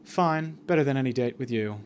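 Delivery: acted cool, quiet retort; understated mock-icy comeback; passive-aggressive. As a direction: toss back a muted, cutting reply. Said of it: "We kind of just passive aggressively".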